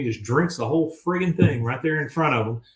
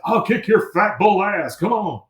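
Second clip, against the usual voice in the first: mock tough-guy challenge; 8 semitones higher, 4 dB louder than usual. Hank challenging the bull.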